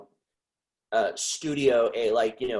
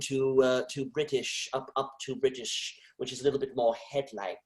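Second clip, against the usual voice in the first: British accent, a bit more head-like; light London British, placed in the head. Shown as a demonstration. Touring accents for the interviewer, London British accent. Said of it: "well, a London British".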